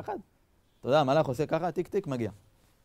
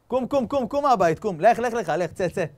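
insistent, rapid-fire commands; urgent order; 5 semitones higher, 4 dB louder than usual. Retold or imitated. God ordering Abraham out of his home, urgent command. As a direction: hustle someone out the door.

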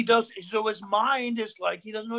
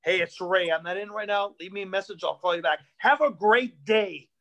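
a lower dad voice, a bit cheerier at the end; lightened-up dad; 3 semitones lower than usual. Retold or imitated. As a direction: read the updated message trying to sound friendly. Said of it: "This is his outgoing message".

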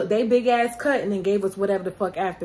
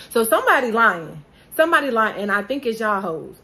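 heated vlog rant; angry accusation; 2 semitones higher, 6 dB louder than usual. Real, not acted. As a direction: call out the liars, louder the second time. Angry repeat about the money.

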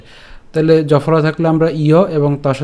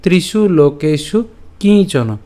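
measured, slow Sanskrit phrasing; verse recitation; slower than usual. Shown as a demonstration. Teacher showing how to pronounce it, slow recitation. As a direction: recite the line in careful pieces. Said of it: "অথবা এভাবে উচ্চারণ করতে পারেন".

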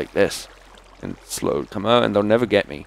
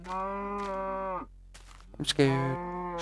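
mock scared; 10 semitones higher, 13 dB quieter than usual. Jokey aside while creatures lurk.

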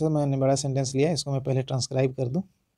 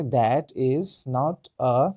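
slow, drawn out; much slower than usual. Shown as a demonstration. Teacher spelling the sentence out slowly for students. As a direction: stretch each word slowly. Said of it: "तो आप बोलेंगे".

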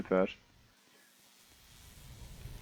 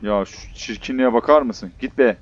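disgusted shout; 7 dB louder than usual. Real, not acted. Shouting at monster on top.

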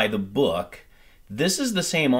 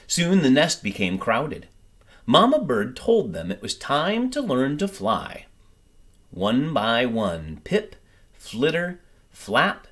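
gentle storybook reading, lively and clear; story narration. A narrator's reading. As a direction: read it like a bedtime picture book. Reads picture book aloud.

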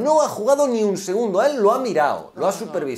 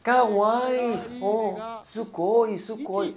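mock Japanese cheer; 4 semitones higher, much slower than usual. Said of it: "Sabe decir".

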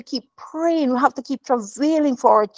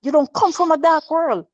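firm reassurance; 6 semitones higher than usual. Retold or imitated. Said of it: "I have to be saying".

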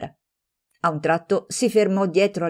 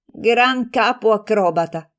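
"Gran capo acrobata" slowed, louder and higher, dripping with irony; ironic echo; 5 semitones higher, 4 dB louder, slower than usual. Acted. Friend mockingly repeating the insulting title, ironic. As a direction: toss her own words back with a smirk. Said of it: "esclamò con un sorriso ironico".

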